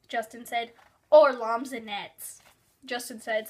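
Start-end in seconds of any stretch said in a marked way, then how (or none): 1.1-2.4 triumphant, loud and drawn out. A narrator's reading. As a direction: proudly stretch out the made-up word. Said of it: "sounding triumphant".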